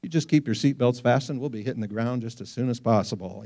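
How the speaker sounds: unruffled pilot on the PA, lightly imitated; calm pilot announcement. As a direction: soothe the cabin like an airline pilot. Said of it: "they'd still come on and say".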